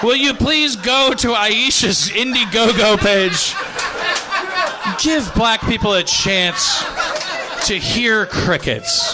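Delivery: high, slow, laughing appeal; laughing plea. Real, not acted. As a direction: plead while cracking up.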